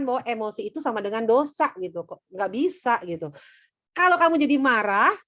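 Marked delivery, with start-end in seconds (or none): 3.9-5.1 emphatic quote. Acted. Quoting Efesus on anger.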